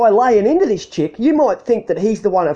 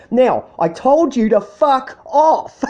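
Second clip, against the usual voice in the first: slow laughing taunt; 4 semitones higher, slower than usual. Retold or imitated.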